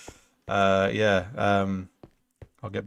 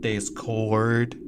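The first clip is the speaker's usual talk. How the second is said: put-on hillbilly accent. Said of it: "like, a hillbilly accent".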